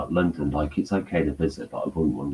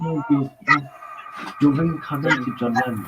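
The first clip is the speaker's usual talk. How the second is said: put-on insistent New York accent; 9 semitones higher than usual. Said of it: "Shut up".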